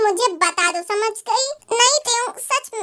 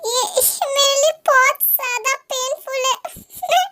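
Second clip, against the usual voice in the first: tearful, breaking voice with sobs; crying; 3 semitones higher than usual. Acted. A character crying alone over someone, tearful. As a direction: let the tears break through the words. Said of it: "तुम फिर से रो रही हो".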